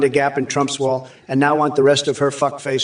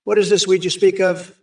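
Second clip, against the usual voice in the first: mock innocent; 4 semitones higher than usual. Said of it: "I've never even heard of weed".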